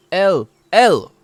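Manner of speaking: loud high call across the shop; yelling. Acted. Wood elf yelling for her assistant. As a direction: yell for someone upstairs. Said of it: "she yells".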